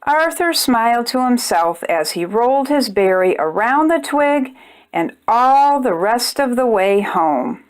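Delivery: gentle storybook narration for little ones; measured picture-book read-aloud; reading to children. A narrator's reading. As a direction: read it like bedtime story time.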